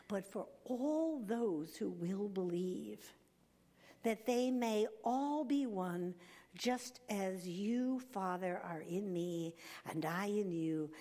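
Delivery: measured, emphatic Bible reading; scripture reading. Acted. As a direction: read Christ's prayer aloud to a congregation. Reads scripture aloud to audience.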